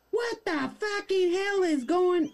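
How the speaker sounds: hammed-up outrage; outraged Karen. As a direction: drag out the outraged question.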